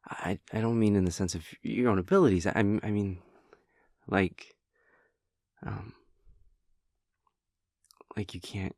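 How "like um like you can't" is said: faltering near-whisper. Acted. Confessing a painful feeling.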